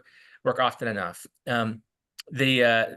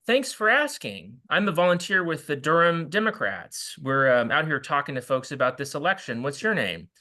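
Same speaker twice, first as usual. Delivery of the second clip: cheerful canvasser reply. Shown as a demonstration. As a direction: greet the suspicion with bright friendliness. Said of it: "You say".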